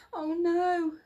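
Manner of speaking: put-on girl shocked at the TV; cried out. A narrator's reading. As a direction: gasp it in alarm. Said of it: "Lucy cried".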